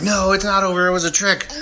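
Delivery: high-pitched mock alarm; dismayed realisation. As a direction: imitate victims realising they were fooled.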